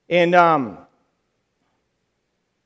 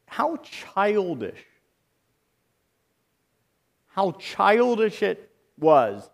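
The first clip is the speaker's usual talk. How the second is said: slow lament; 2 semitones higher, slower than usual. Real, not acted. Pastor lamenting mockery.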